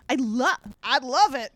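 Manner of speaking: lightly put-on Southern accent; faux Southern accent. A narrator's reading. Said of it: "Connor exclaimed in a faux Southern accent".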